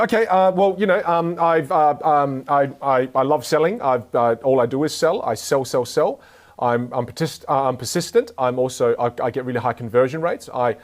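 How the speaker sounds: acted nervous, stumbling answer full of ums; nervous candidate. Unprepared candidate answering a sales interview question, nervous. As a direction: flounder and restart like an unprepared interviewee. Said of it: "they can see I'm nervous".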